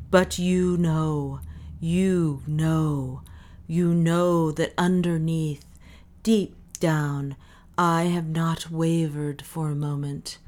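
measured, intoned confession of faith; solemn, deliberate proclamation; voice of revelation. A narrator's reading. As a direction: intone each phrase as revelation, with solemn pauses. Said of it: "sang Parisi in the voice of revelation".

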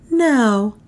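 high, insistent woman's voice; anxious woman pressing for an answer; pleading heroine. A narrator's reading. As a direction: demand it, pitched high. Voices heroine demanding news.

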